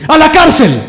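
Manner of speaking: booming high shout of a judge passing sentence; sudden, loud, high-pitched courtroom yell; judge's shouted verdict. Acted. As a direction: thunder the sentence out like an angry judge.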